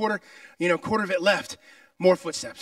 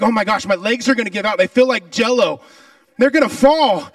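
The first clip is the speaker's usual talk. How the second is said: mock exhausted panic; 6 dB louder than usual. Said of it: "And I'm like".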